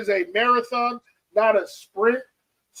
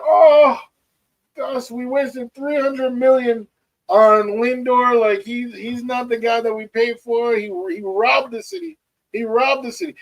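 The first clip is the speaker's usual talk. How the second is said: put-on a light Grenadian accent for grandpa, a bit higher; lightly voiced Grenadian grandpa; imitating grandpa's Grenadian accent; 4 semitones higher, 4 dB louder than usual. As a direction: mimic a Grenadian grandpa griping on the phone. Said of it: "Caleb can do a better, uh, accent than me".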